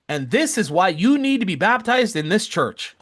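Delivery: playing the tearful elder declaring it; earnest old woman. Elder tells her sister-in-law to be baptized, fervent. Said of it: "She points at her sister-in-law and says".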